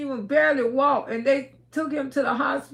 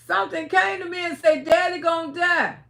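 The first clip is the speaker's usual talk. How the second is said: higher, mildly raised retold outcry; retold hollering; 4 semitones higher than usual. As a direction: insist in distress, re-enacted short of screaming. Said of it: "I started screaming and hollering".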